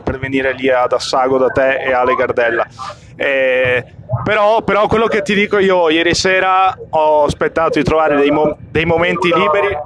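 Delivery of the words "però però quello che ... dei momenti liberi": rough, tired hoarse voice. Real, not acted. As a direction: voice worn out from yesterday. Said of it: "ieri ho perso la voce".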